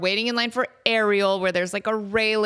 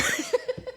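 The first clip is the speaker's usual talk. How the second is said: laughing; 12 semitones higher, 5 dB quieter than usual. Real, not acted. Laughs at own story.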